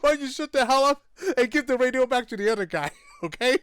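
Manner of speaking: high, loud mock rant, far from his own voice; mock angry chief. Retelling the chief's outburst to a friend, mock angry. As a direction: bark it out like an irate police chief.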